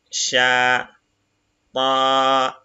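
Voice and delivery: each Arabic syllable said apart, slowly; syllable reading. Shown as a demonstration. Teacher reading Arabic syllables to the class, slow and separated. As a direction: spell the word out syllable by syllable. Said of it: "Donc, yag".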